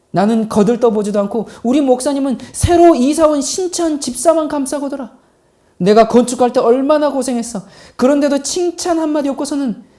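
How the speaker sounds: 잔뜩 삐친 집사를 흉내 낸 푸념; 입이 튀어나온 채 서운함을 쏟아내는 연기; 씩씩거리며 불평. Retold or imitated. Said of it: "입이 이만큼 튀어나와서 씩씩거리면서". (씩씩대며 투덜거리는 말투로)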